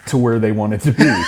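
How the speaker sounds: a real laugh bursting out at the memory. Real, not acted. Telling the interviewer about the sliding drill instructor, laughing.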